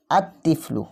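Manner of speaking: আত তিফলু with the t doubled and no l in the article; tashdid on ta. Shown as a demonstration. Teacher reads an example to students, doubled T in আত তিফলু. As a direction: hold the t between আত and তিফলু. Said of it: "এই জন্য আমরা এখানে তাসদিদ দিয়ে পড়ছি".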